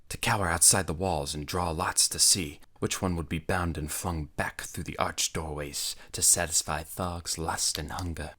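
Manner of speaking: usual speaking voice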